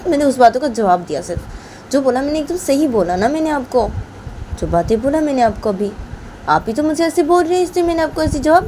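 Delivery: put-on girl Rama rebuking grandma for calling her rude, indignant; offended retort. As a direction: stand up for yourself to an elder. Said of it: "तो रामा वो बानी की दादी को बोलती कि".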